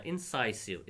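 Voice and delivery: "incisive" with a long "sigh" middle; "incisive", middle syllable rhyming with "eye"; correct pronunciation. Shown as a demonstration. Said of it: "इसको क्या पढ़ेंगे हम?".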